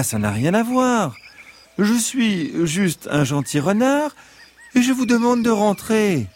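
high, sweet fox voice; gentle fox voice. Acted. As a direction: reason with them kindly, as the fox. Fox explains himself.

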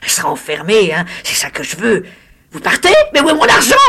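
high, loud mocking crone; old hag voice. The disfigured hag mocks the lawyer, high crone voice. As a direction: taunt him like a cackling witch. Hag gloats then demands money.

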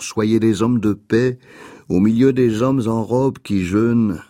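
measured, exhorting recital; poem reading. Acted. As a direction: lift each opening phrase, let each command settle.

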